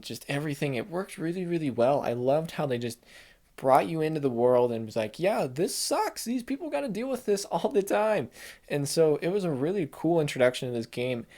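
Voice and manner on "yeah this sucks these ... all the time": mock weary shrug. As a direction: sell the world's misery as a weary joke. Game voiced as shrugging off misery.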